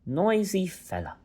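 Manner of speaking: high, grumbling pixie voice; grumpy pixie. Acted. Pixie scolding the noisy boy, high and cross.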